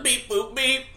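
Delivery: robot voice. Pretend. Tom tries the robot.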